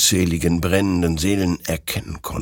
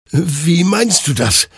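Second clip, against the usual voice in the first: high, slow bewildered question; confused stammer; 11 semitones higher, 5 dB louder than usual. A narrator's reading. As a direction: ask in loud confusion. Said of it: "stammelte Hector verwirrt".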